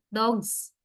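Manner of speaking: "dogs" ending in a voiced z, "dogz"; final z sound. Shown as a demonstration. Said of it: "this letter S is pronounced as".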